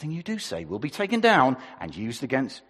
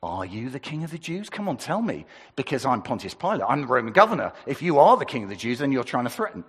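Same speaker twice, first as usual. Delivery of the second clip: demanding; 4 dB louder, faster than usual. Shown as a demonstration. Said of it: "Or maybe it's".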